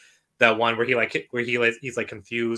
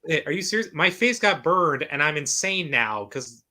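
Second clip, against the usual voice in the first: Two-Face voice; 7 semitones higher than usual. Retold or imitated. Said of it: "It's like".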